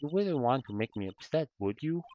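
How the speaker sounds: mock seductive. Witness teases lawyer.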